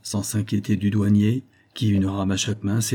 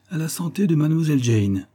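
higher, lively toast, falling at the end; 6 semitones higher than usual. A narrator's reading. Lieutenant toasts mademoiselle Jane, lively. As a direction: propose a health brightly higher.

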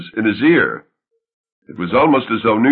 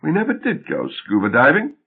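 uninterested; 4 semitones higher than usual. Acted.

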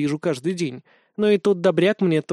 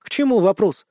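displeased snort; 5 semitones higher, 3 dB louder than usual. Acted. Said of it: "недовольно фыркнула Лина".

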